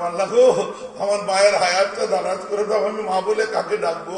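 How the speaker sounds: loud, high plea to God; pleading prayer. Acted. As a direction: cry out to God for a sick mother. Voicing a son's prayer.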